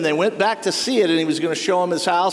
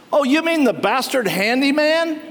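mocking sneer; 6 semitones higher than usual. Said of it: "That's what they're saying about Jesus".

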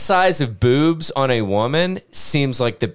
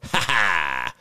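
maniacal laugh; 6 semitones lower, 4 dB quieter than usual. Retold or imitated. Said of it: "That was my best, uh, impression of Charles Manson".

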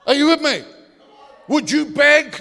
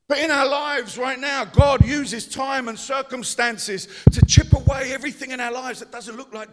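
preaching. Acted. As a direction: drive the point about pride home. Preaching, loud over music.

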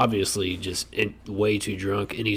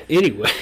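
coughing fit; 8 semitones higher, 8 dB louder, faster than usual. Real, not acted. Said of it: "surprise when you play this back".

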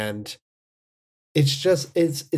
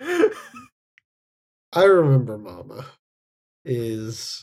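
stretched out slowly through laughter; laughing; much slower than usual. Real, not acted. Host naming the film while still laughing. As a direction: giggle through the title.

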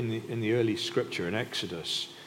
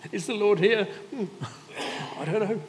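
high, loud, laughing incredulity; mock doubting; 13 semitones higher, 6 dB louder than usual. Israelites beside the cloud doubting God, high mock bewilderment. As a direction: send up the doubters in a squeaky-high voice.

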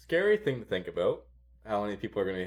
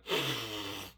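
a soft sniff in through the nose, mimed; mock snorting a line; imitated snort; 7 dB quieter than usual. Retelling how the guy snorted it off his finger, a soft sniff.

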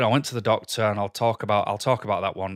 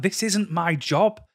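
retold exasperated protest, pitched higher; frustrated outburst; 4 semitones higher than usual. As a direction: replay the rising frustration at the boss. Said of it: "getting so frustrated 'cause it was like".

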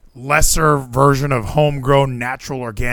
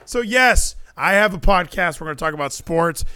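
podcast voice; 5 semitones higher than usual. Shown as a demonstration. Back into the showy podcast voice.

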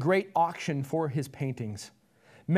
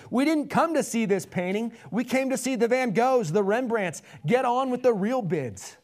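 high, raised, irritated heckle; angry shout; 6 semitones higher, 4 dB louder than usual. A narrator's reading. Bidder demanding the real paintings, shouting angrily. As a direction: shout your complaint at the auctioneer. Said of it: "Another voice shouted angrily".

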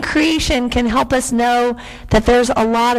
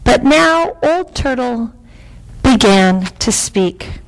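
lilting storyteller, lifting for the reveal; story narration; 6 semitones higher than usual. A narrator's reading. Reader revealing Old Turtle's voice, wondering storytelling. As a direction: draw out the wonder of it. Reads a picture book aloud.

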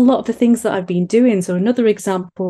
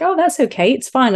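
bright, high soothing reassurance; calm her down, lightly and brightly; high, breezy it's-fine tone; reassuring; 5 semitones higher than usual. Retold or imitated. Reassuring daughter over rice weight.

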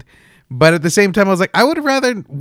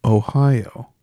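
flustered dad; 3 dB louder, much slower than usual. Retold or imitated. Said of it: "And the dad's like".

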